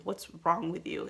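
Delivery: imitating a rude lady's question; lightly mocked attitude, leaning on "wrong"; retold question with no sympathy in it. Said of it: "with that type of attitude".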